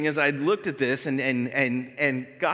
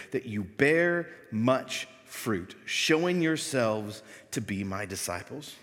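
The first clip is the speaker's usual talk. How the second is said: scripture reading. Acted. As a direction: read God's word weightily, letting each line land. Pastor reads scripture aloud.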